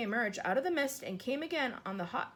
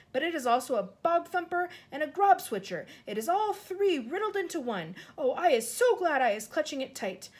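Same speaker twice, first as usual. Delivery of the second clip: higher and louder; three nightmares in one; exasperated cry; 6 semitones higher, 7 dB louder than usual. Acted. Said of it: "cried the exasperated B F G".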